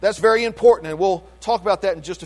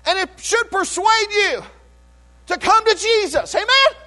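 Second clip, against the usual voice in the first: preaching at full force; 5 semitones higher than usual. Acted. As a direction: lift it like a pulpit climax. Preaching climax.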